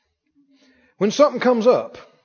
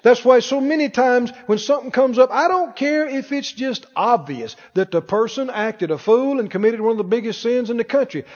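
ordinary delivery

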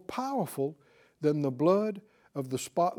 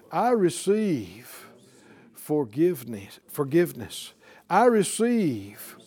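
led prayer; 4 semitones lower than usual. Shown as a demonstration. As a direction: pray it word by word so they follow. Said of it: "Say it out loud".

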